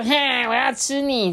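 a light growly lion threat; playful lion growl. Retold or imitated. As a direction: play the hungry lion, teasing. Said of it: "所以他会说".

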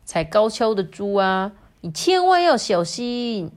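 lightly voiced zebra giving a warning; a touch of mock concern, last phrase pushed up; teasing zebra. Zebra warns the wobbling pig. (略带调侃地提醒)

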